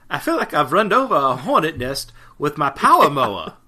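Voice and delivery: a light, laughing take on the mayor; quoting the mayor with a chuckle, barely voiced; imitating Mayor Booth. To his co-host, a half-laughing Mayor Booth line. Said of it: "That's not bad. I think I got that down".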